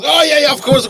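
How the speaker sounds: overdone Black Country voice; bad Black Country accent. Fisherman happily agrees again, in a mock Black Country accent. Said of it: "That's gotta be the worst Black Country accent I've heard".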